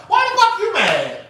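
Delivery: very high, loud retold rant; over-the-top yelling. Speaker defending herself to her waiting friend, indignant yelling. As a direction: act out hollering back, indignant and dramatic. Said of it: "Now here I go".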